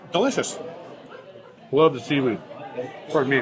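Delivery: talking through a mouthful of food; words around a bite of food; mouth full. Real, not acted. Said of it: "I should not talk with my mouth full".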